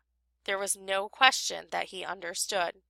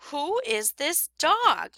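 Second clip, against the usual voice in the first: insistent repeating; 6 semitones higher, slower than usual. A narrator's reading. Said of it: "my wife kept repeating".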